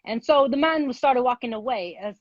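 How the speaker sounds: wobbly attempted British accent. Contestant improvising a thirty-second story for the host, in an attempted British accent. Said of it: "You gotta just talk in your British accent".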